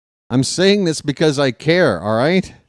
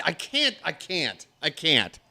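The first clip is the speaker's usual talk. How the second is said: trailing off, almost under breath; I can't, fading to nothing; worn-out muttered repeat; defeated mumble; 12 dB quieter than usual. Real, not acted. Overwhelmed by chat blaming.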